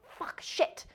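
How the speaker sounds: hissed under the breath; whispered curse. Retold or imitated. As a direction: swear in a whisper. Cursing under breath on phone.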